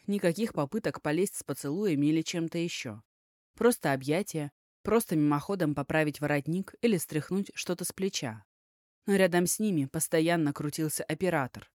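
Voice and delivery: usual speaking voice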